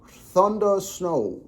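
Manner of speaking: very slow, high Southern drawl; slave owner drawl. Acted. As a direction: stretch out a planter's Southern drawl. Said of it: "That's like the slave owner drawl".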